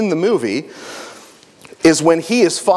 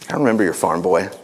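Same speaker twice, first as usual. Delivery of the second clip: pirate; 10 semitones lower, faster than usual. Acted. Masked pirate recalling the farm boy.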